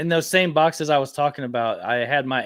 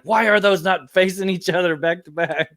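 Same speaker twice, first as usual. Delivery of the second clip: higher-pitched, mildly scolding mock yell; retold yell, pitched up in indignation; 6 semitones higher than usual. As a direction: imitate a friend telling you off. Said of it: "he yelled at me".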